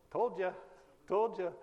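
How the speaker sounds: teasing told-you-so. Retold or imitated. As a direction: tease him like you knew all along. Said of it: "I could feel the Lord going".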